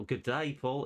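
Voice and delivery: playful fake Aussie twang; mock Australian accent. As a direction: put on a cheesy Australian accent. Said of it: "Is he Australian?".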